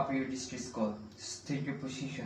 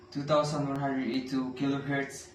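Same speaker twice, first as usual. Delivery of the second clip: loud radio call; 7 dB louder than usual. Acted. Calling out over radio.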